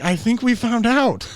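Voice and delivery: high, loud, slow sarcastic quip. Retold or imitated. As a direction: deliver it deadpan but pointed. Dry comeback to drug experiment.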